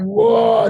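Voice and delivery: imitated lion roar, drawn out; lion's roar. Preacher showing how the lion's roar echoes, imitated roar. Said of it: "His roar just going".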